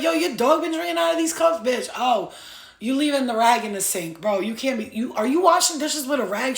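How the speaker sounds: high, loud mock rant. Gemini friend loudly scolding the host about her dirty cups.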